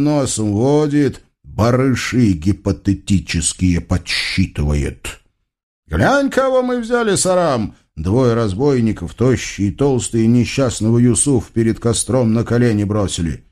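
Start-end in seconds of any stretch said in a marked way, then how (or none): 5.9-7.7 высокий задиристый голос разбойника; крикни главарю высоким голосом; тощий разбойник. Acted. (высокий голос тощего разбойника)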